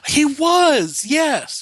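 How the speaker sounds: gasp, then high excited yes; sudden realisation, squealing high; surprised gasp. Real, not acted. Sudden recognition of the film.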